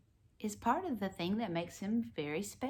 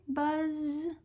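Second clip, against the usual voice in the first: bee voice; 8 semitones higher than usual. Pretend. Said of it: "He can sound like a bee".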